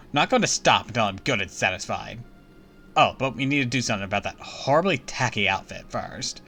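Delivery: haughty princess voice. Acted. Rival princess challenges heroine.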